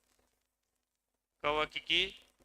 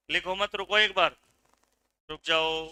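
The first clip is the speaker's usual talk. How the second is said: calling a halt; 6 dB louder than usual. Real, not acted. Teacher tells students to stop writing, loud calling-out. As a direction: cut in loudly over the writing.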